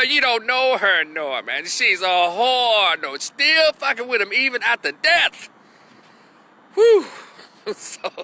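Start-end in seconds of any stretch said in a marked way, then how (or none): 0.0-3.0 spooky mother voice. Retold or imitated. Norman's dead mother scolding him, slow and eerie. 6.7-7.0 high, loud exhale of relief; loud whew. Real, not acted. Teller reacting to his own story, a loud whew. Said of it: "exclaims after story".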